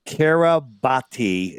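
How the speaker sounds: Kiribati slowly sounded out as "Kira-batty"; sounded out phonetically. Shown as a demonstration. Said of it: "if you want to phonetically s-, sound it out".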